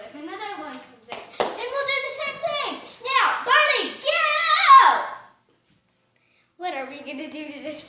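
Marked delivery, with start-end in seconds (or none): 3.0-5.0 loud shooing command; shooing the bird. Real, not acted. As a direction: order the bird out.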